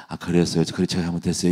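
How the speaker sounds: put-on calm the child with a low soft tone; slow low tone. Shown as a demonstration. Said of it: "천천히 낮은 톤으로 말하면".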